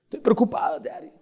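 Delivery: a hint of a little girl pleading; worried little girl. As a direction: play a fretting small daughter. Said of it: "Shelly se empieza a afanar".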